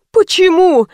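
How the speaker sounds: high-pitched surprised question; astonished. A narrator's reading. Old woman whose gift is refused, astonished. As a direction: ask in high, puzzled surprise. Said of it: "изумилась старушка".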